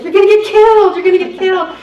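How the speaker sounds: high, loud frantic cry of alarm; panicked warning. Retold or imitated. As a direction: shriek it like a terrified receptionist. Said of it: "she's like".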